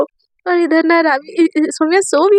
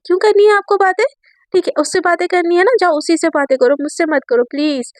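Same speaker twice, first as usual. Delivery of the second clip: sharp, raised, hurt jealous voice; jealous outburst; 3 semitones higher than usual. Acted. Jealous friend snapping at Raavi, raised angry voice. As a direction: snap back in jealousy, raised.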